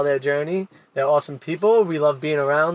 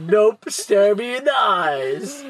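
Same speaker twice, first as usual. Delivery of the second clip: slow mock stern; 6 semitones higher, much slower than usual. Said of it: "And I'm like".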